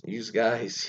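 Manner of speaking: Philadelphia "youse guys", with an added S; Philadelphia accent. Shown as a demonstration. Host showing Philadelphia's added S's, Philadelphia accent. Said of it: "add S's for things don't need S's".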